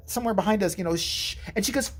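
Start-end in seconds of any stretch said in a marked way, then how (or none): 1.0-1.4 short shush. Retold or imitated. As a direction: shush someone in a theater. Shushing a child in theater.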